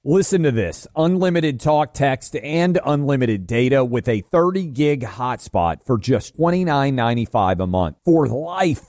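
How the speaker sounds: emphatic sponsor pitch; ad read. Acted. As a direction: pitch the deal to radio listeners. Reads a sponsor ad.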